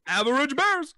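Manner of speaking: punchy, hammed-up cartoon bear voice; sing-song cartoon bear, swelling on each phrase; Yogi Bear. Bear advising his sidekick on smoking, as a hammed-up Yogi Bear. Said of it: "That sounded more like Yogi Bear".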